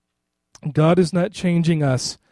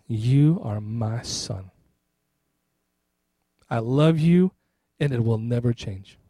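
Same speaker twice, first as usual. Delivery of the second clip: slow, low, soft voice of a loving God; understated fatherly tenderness; tender assurance; 5 semitones lower, 4 dB quieter, slower than usual. Retold or imitated. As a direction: reassure gently, with pauses to let it land. God's tender assurance to listener.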